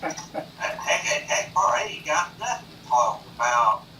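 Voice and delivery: mock Southern country talk; North Carolina accent. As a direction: imitate a North Carolina local. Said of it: "where people talk like that".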